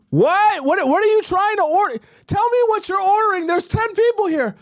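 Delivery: high, strained mock shouting; hammed-up frantic high-pitched yelling; exasperated club bartender. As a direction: yell over the music at a whispering customer. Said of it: "you're in the club, people would be like".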